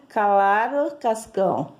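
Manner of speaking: put-on tongue-tied comic-strip kid reading "claro"; lightly tangled-tongue delivery of "claro, Cascão"; Cebolinha. Teacher reads the comic strip reply to pupils, tongue slightly tangled. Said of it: "tem aquela língua enrolada".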